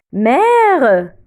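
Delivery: "mère" with a long, open è; drawn-out model of è in "mère". Shown as a demonstration. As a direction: open the mouth and stretch the è in "mère". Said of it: "on ouvre la bouche".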